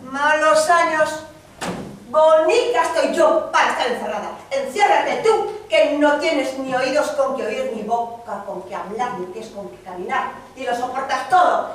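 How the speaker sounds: loud, furious refusal; angry wife. Acted. Wife scorning her husband, loud and furious. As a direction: she lashes out at her husband.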